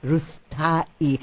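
Rustai as "roos-ta-ee"; copied pronunciation. Shown as a demonstration. Host echoing the guest's surname, copied pronunciation. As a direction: sound out Rustai syllable by syllable. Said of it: "Could you tell me in your way?".

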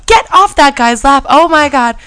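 loud, high-pitched outraged mimicry; scandalized friend scolding. Friend catches her kissing on a stranger's lap, shocked scolding. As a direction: act out a shocked telling-off, punching each phrase.

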